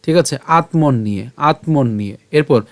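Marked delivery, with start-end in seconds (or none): 0.5-1.3 "আত্মন নিয়ে" run together as one word. Shown as a demonstration. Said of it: "একসাথে উচ্চারণটা করব". 1.4-2.2 "আত্মন নিয়ে" run together as one word. Shown as a demonstration. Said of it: "একসাথে উচ্চারণটা করব".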